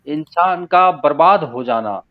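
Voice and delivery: measured, unsung ghazal recital; spoken verse recitation. Acted. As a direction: recite phrase by phrase with deliberate pauses. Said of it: "मैं तहत में ही पढ़ता हूँ".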